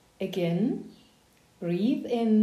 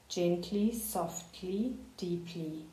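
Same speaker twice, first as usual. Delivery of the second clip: each word softer until barely there; fading to a hush; 6 dB quieter, slower than usual. Shown as a demonstration. Coach easing a student into calm, fading to a hush. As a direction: let the voice fade away softly.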